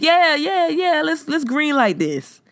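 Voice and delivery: high, mocking exec voice saying yeah yeah; mock executive. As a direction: pitch it up, a clueless exec greenlighting. Mocks Netflix executive approving.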